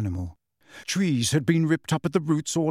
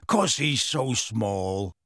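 low, slow rustic voice; pleading giant; 4 semitones lower, slower than usual. A narrator's reading. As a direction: excuse him slowly and low. Hagrid's pleading excuse, echoed incredulously.

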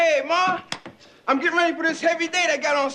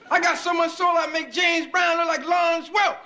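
boastful shout; 4 semitones higher than usual. Acted. Bragging about his soul.

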